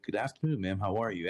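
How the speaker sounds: mad polite. Retold or imitated. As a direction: imitate a very courteous greeting. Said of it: "Like, mad polite".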